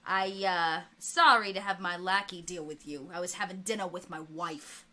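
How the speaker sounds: lightly voiced mob boss on the phone; a hint of an old-time gangster; Capone. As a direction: play a gangster boss taking a call. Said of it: "And the voice of Capone comes on".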